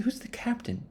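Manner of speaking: squeaky high, confused asking; high puzzled question. Retold or imitated. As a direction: ask it in a high baffled voice. Crew asks about the captain.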